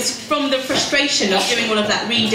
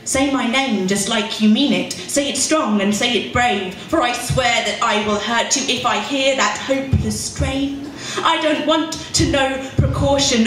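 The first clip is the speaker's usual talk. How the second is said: poem performance. Acted. Poet reading her poem to a pub crowd, measured and intense. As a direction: lean on each image, let pauses hang.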